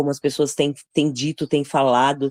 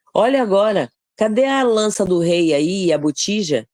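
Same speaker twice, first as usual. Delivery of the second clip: higher-pitched taunting demand; acted challenge; 6 semitones higher than usual. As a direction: confront someone with the missing proof. David taunts Abner, acted.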